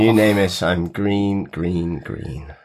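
nasal, croaky sick voice. Real, not acted. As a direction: talk through a blocked, sore throat. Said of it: "my croaky voice".

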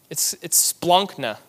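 slow, relishing "splanchna"; enjoying the sound of splanchna; savoured Greek word. Shown as a demonstration. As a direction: say "splanchna" slowly and lovingly. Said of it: "I just like to say it".

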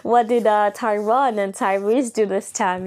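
mock-nosy curiosity; playfully nosy. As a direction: act out an eavesdropper fishing for gossip. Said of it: "like, being nosy".

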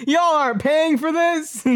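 loud, high, laughing disbelief; excited outburst. Real, not acted. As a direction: shout it out, laughing at yourself. Laughing outburst at reading smut.

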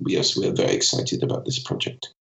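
mock Scandinavian, bored-sounding despite the words. Speaker illustrating native prosody, bored Scandinavian delivery. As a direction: imitate an unexcited Scandinavian intonation. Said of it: "tend to sound a little bit bored".

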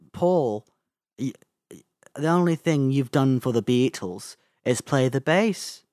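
lightly voiced Liverpool put-down; halting Liverpudlian impression, needling a bandmate; a singer. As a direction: tease in a loose Liverpool accent. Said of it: "do you wanna hear my John Lennon accent".

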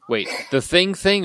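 high, puzzled double-take; wait, which thing, surprised; confused. Real, not acted.

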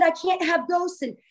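imitated distraught complaint, half force; retold losing it. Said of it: "I just start losing it".

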